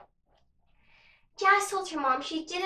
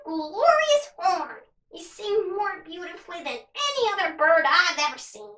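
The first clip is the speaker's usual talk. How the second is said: raspy crow voice; 4 semitones higher, 3 dB louder than usual. Acted. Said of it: "In a raspy voice".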